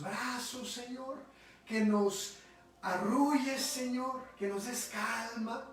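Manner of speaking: slow, tender prayer voice; closing prayer. Real, not acted. Leader asking the heavenly Father for calm, prayerful.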